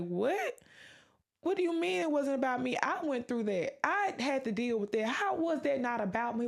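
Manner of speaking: mildly indignant imagined objection; a quick, disbelieving comeback; incredulous protest. Retold or imitated. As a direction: act out someone disputing what they were told. Imagined listener protesting what she was told.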